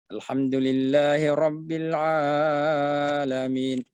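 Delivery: Alhamdulillahi Rabbil Alamin with the a stretched too long; overlong vowel. Shown as a demonstration. Teacher showing the mistake of over-lengthening. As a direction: overstretch the a in Alamin. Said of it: "Itu juga lebih dari dua harakat".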